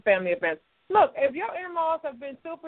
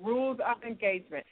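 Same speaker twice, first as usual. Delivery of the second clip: slow, deliberate and a little softer; said slowly; 6 dB quieter than usual. Shown as a demonstration. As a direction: spell it out word by word, slowly. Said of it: "Let me say it slowly".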